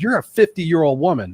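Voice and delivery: retold anger. Son tells his aging mother to act her age, mildly angry. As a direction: scold her lightly in the retelling. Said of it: "One time I got mad at her".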